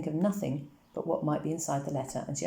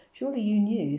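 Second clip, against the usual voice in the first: higher, louder, incredulous; surprised visitor; 5 semitones higher, 6 dB louder than usual. A narrator's reading. Herr Rosenfeld to Papa, higher, louder and incredulous. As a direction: press them as if it were obvious. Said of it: "said Herr Rosenfeld".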